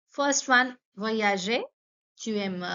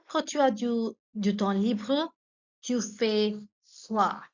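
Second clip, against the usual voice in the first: "Quand tu as du temps libre, tu fais quoi?" broken into pieces with pauses; feed it to learners bit by bit; careful chunked dictation. Shown as a demonstration. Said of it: "teacher models question in chunks".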